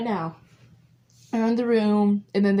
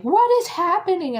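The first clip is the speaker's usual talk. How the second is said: confused; 10 semitones higher, 5 dB louder than usual. Retold or imitated. Viewer confused by time skips.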